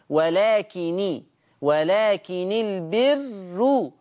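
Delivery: ولكن البر with nun in kasra, very slow recitation; Warsh joined reading. Shown as a demonstration. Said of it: "ولو وصل يكسر النون".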